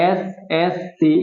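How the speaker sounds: এসএসসি drawn out as S, S, C; letter by letter. Shown as a demonstration. Teacher asking students to notice, এসএসসি in separate letters. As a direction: say the letters of এসএসসি slowly, one at a time. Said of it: "প্রত্যেকটা অক্ষর আলাদা আলাদা উচ্চারণ করেছি".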